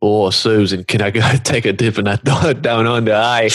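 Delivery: quick, wobbly mock Australian; jokey Australian accent, breaking into laughs; put-on Australian accent. Friend clowning to Susan, shaky Australian accent. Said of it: "Australian and then it changed?".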